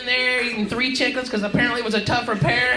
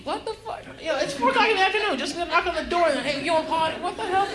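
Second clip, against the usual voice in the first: baffled; 3 semitones higher, 4 dB quieter than usual. Retold or imitated. Baffled at door-knock offer.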